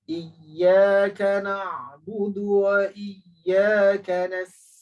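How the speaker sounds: Quran recitation. Shown as a demonstration. Teacher reciting the fifth verse for the class. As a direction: recite the verse slowly, drawn out. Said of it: "saya ulang balik".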